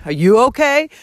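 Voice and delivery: retold, mildly angry comeback; angry retort. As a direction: throw the question back, mildly indignant. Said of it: "I was so angry".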